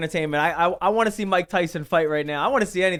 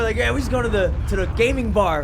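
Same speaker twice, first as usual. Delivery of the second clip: acted excitement; 2 semitones higher than usual. Host shows how thrilled he gets about a bar trip, acted excitement. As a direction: get worked up over a small outing. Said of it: "I'll be getting excited".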